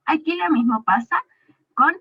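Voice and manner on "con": "la rana" said very slowly and louder; teacher showing the article; slow demo. Shown as a demonstration. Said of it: "Rana termina con la A".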